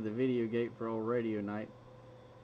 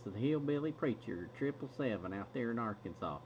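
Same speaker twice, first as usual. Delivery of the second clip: put-on thick Arkansas accent; 4 dB quieter than usual. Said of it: "He talks like this".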